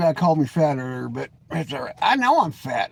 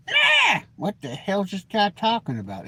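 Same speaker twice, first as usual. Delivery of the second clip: a high, startled "Ah" and then a puzzled question; confused viewer; 3 semitones higher than usual. Retold or imitated. Viewer stumbling on the video, mock baffled, high burst. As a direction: play a baffled viewer who can't follow. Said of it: "then be like".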